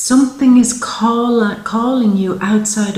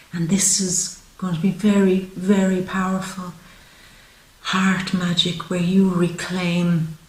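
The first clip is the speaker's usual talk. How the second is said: tender reassurance; 3 semitones lower, 5 dB quieter than usual. Real, not acted. Softly moved, tender promise to viewer.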